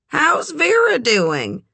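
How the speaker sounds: put-on high, drawn-out older-relative lilt; sociable, high-pitched inquiry; Eleanor's friendly question. A narrator's reading. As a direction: ask it brightly and slowly, pitch lifted. Eleanor's acted dialogue, friendly inquiry.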